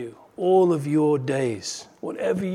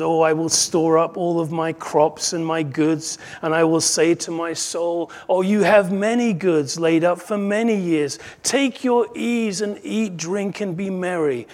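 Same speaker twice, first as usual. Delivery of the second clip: self-satisfied rich man; 2 semitones higher, 5 dB louder than usual. Acted. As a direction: congratulate yourself expansively, lightly acted. Rich man's self-satisfied speech acted.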